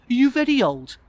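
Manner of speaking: put-on high, loud child's question. Child grilling adult guest, high voice. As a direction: ask it high like a curious child.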